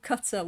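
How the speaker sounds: "Qatar" said like "cutter"; "Qatar" rhyming with "butter"; "cutter" pronunciation. Shown as a demonstration. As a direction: stress the first syllable of "Qatar". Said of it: "never heard it called Qatar".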